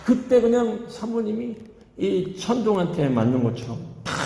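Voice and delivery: ordinary talk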